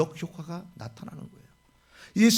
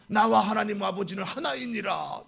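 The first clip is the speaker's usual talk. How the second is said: proclaiming; 2 semitones higher than usual. Retold or imitated. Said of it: "이렇게 말하면서".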